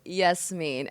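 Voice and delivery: Yasmin said carefully with a falling end; correct name pronunciation. Shown as a demonstration. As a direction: say Yasmin the right way. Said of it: "Say it with me".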